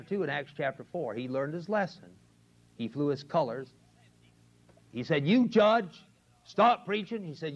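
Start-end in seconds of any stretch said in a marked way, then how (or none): 5.3-7.2 bold declaration. Retold or imitated. Peter's bold reply quoted.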